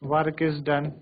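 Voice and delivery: very slow, each phrase spaced out; slow dictation. Shown as a demonstration. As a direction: dictate slowly for notes. Dictating definitions to class. (धीरे-धीरे लिखवाना)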